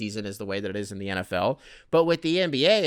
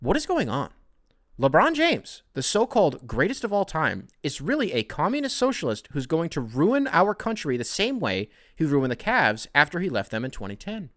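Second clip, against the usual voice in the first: hammed-up pundit outrage, swinging pitch; indignant TV commentator impression, lurching up high on key words; Tucker Carlson; 3 semitones higher than usual. Host imagines pundit reacting to LeBron running, mock-outraged pundit voice. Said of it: "I am gonna do the voice".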